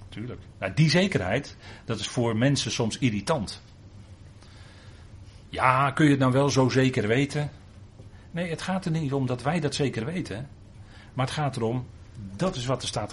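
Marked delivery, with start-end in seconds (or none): 5.5-7.5 mock skeptical objection. Voicing irritated skeptics' objection.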